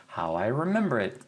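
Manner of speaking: ordinary talk, nothing marked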